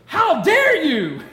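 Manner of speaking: high, loud mock-outraged cry, laughing; indignant little boy. Father imitating his son in play-wrestling, mock outrage. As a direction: play the wounded little champion, hammed up with a laugh. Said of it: "He goes".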